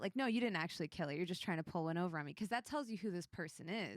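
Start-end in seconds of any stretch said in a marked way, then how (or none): 0.1-2.3 quick, lightly skeptical brush-off; mild doubt. Acted. NPC doubting adventurers' dragon story, mildly incredulous. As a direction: rattle off your disbelief, understated. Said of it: "Do they doubt it?".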